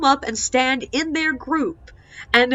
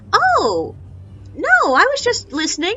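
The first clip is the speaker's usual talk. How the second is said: lightly voiced old lady, higher and louder; innocent old lady; 9 semitones higher, 4 dB louder than usual.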